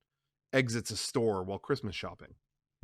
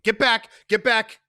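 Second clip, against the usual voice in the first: higher loud order; commanding shout; 10 semitones higher, 9 dB louder than usual. Acted. Sonny ordering Sandra away from the door. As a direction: bark at her to move.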